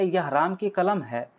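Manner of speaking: a touch of surprise on the statement; understated demo of an exclamation; mild surprise. Shown as a demonstration. Teacher showing how intonation changes meaning, mild surprise. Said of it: "आश्चर्य को बोध कराता है".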